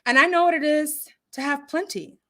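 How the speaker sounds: measured, deliberate Bible reading; scripture reading. Real, not acted. Host reading scripture to her live audience, measured and deliberate. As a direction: read it slowly with weighty pauses.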